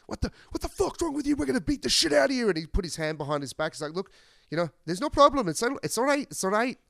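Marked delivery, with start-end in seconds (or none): 0.1-2.5 high, fast aggressive yelling; hammed-up tough-guy fury; mock trucker threat. Truckers threatening old man. 3.9-6.8 put-on a failed, high Irish accent, calm and soothing; bad Irish accent, unruffled; attempted Irish accent. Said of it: "Can't do an Irish accent".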